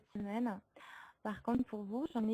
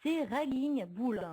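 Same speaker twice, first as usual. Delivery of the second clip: English accent; slower than usual. Real, not acted. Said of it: "excusez mon accent anglais d'avance".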